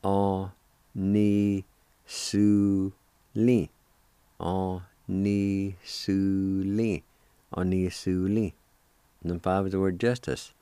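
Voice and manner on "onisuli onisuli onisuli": "Onisuli" said three times as a clear model; repeated model. Shown as a demonstration. Teacher repeating the word for learners to copy. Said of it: "It's pronounced like this".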